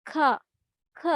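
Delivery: "খ" as an isolated aspirated k; phonic C sound. Shown as a demonstration. Teacher demonstrating the letter C to learners, short aspirated "খ". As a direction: puff out a short "খ", then pause. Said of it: "সি এর উচ্চারণটা কিসের মতো".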